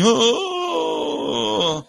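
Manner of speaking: high cartoon moaning of a risen corpse; imitating Lazarus stumbling out in a cartoon; mock zombie groan. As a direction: groan like a stiff cartoon mummy. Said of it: "Ele saindo assim".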